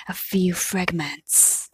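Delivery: hushed and slow. Acted. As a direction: let it trail off, slow and soft. Fudge's horror fades out slowly.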